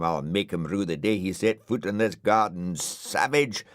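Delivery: building indignant tirade ending in a yell; outraged rant. Acted. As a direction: splutter with wounded vanity. Dougal rages at his haircut.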